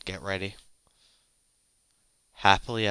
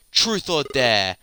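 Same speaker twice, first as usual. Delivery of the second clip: louder, slower, higher challenge; menacing demand; 4 semitones higher, 6 dB louder, slower than usual. Acted. Villain demands Lucia choose now, menacing and loud. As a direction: press her for an answer, drawn out and loud.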